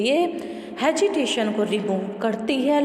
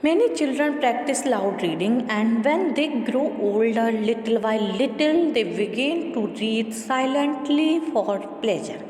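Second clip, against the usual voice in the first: measured, deliberate textbook read-aloud; steady classroom reading voice; much slower than usual. Acted. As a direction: read the passage out evenly for the class. Reads textbook passage aloud.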